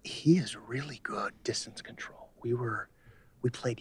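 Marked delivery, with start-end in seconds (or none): 0.0-2.3 golf commentator. Acted.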